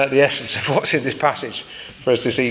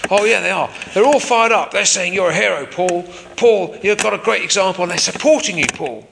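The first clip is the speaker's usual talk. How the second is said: jailer Cassius; 4 semitones higher than usual. Acted. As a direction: report the buzz to the prisoner as his guard. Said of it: "we'll call the jailer Cassius".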